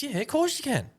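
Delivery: imitating the bartender. Bartender voiced in story.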